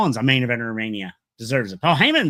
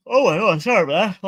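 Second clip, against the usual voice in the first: sudden louder, higher "oh my God"; real startled apology; 6 semitones higher, 6 dB louder than usual. Real, not acted. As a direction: caught off guard, then apologise. Startled by something off camera.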